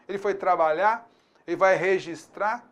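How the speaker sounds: "trabalhar" and "registrar" said without the final R, as "trabalhá" and "registrá"; dropped final R. Shown as a demonstration. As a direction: cut the R at the end of "trabalhar" and "registrar", as in everyday speech. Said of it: "a gente às vezes corta o R".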